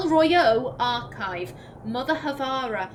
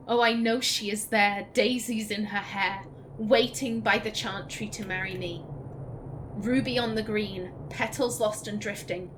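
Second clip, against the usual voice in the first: poem reading. Acted. Streamer rereads the ballad to viewers, fading sadly. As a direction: let the last verse fade out sadly. Reads song lyrics again.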